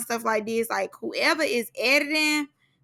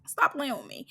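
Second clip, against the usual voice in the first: whispered warning; 8 dB quieter than usual. Real, not acted. Aside warning to viewers.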